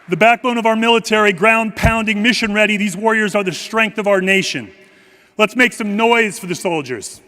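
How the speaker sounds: fast, pumped-up hype call; rally the crowd with energy. Acted. Hyping up soldiers for crowd.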